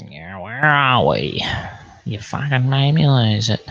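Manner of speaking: whispered, half-laughing complaint; mock-annoyed whisper to the chat. Real, not acted. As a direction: hiss it under your breath. Lost his place reading.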